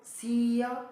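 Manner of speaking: सिया said gently, without stress; unstressed, gentle. Shown as a demonstration. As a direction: ease through सिया with no push on it. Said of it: "जो धीरे से बोली मैं, आराम से बोली". (सिया धीरे से, आराम से, बिना ज़ोर के)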